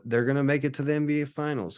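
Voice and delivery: high, pleading huckster pitch; desperate time traveler. Pretend. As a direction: sell it like a frantic street tipster.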